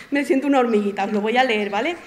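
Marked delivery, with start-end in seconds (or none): 0.0-1.0 laughing as you admit it; laughingly humble aside; self-deprecating laugh. Real, not acted. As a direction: say it through a small laugh. Nervous laugh before reading aloud.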